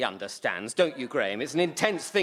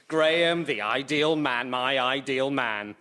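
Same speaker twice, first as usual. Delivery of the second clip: dreamy swoon; 2 semitones lower than usual. Acted. Dad admiring Graham in class, slow lovestruck murmur. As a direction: linger on each word, besotted.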